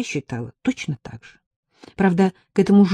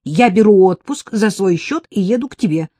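decisive; 4 semitones higher, 7 dB louder than usual. A narrator's reading. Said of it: "сказала Ирка решительно".

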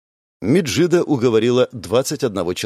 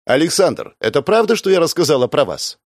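loud question; 5 semitones higher, 3 dB louder than usual. Acted. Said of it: "громко спросила Меджида".

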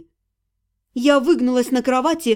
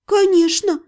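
bitter; 5 semitones higher than usual. Acted. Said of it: "горько сказала я".

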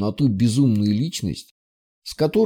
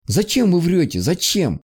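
tearful outburst; 6 semitones higher than usual. Acted. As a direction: voice raised high in tearful reproach. Upset girl cries out.

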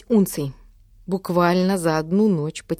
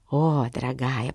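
lower, softer purr; 5 semitones lower, 4 dB quieter than usual. A narrator's reading. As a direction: coax her like a cat. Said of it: "промурлыкала мама".

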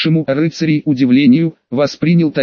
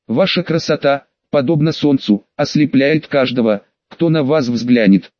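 full of feeling. Acted. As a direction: pour every feeling into it. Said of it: "Пытаясь передать все чувства".

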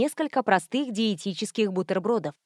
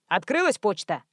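plain reading voice

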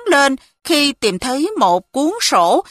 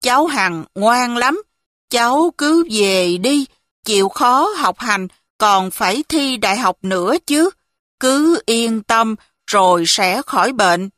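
put-on kindly old man. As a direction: reassure the girl tenderly, unhurried. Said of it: "giọng cụ ân cần".

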